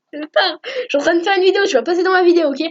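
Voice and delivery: plus aigu et rapide, il reprend sa sœur; un grand frère qui rouspète, vite et plus haut; agacé contre sa sœur. Real, not acted. Reprend sa sœur pendant l'enregistrement. (il gronde sa sœur qui se moque de lui, agacé)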